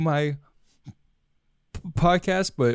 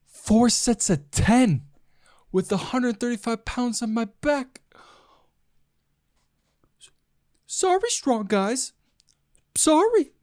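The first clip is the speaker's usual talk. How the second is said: slow, higher comedian brag; lightly voiced cocky stand-up; Chris D'Elia impression; 8 semitones higher than usual. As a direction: drag out the boast then a high sorry. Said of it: "that was my best Chris D'Elia impersonation".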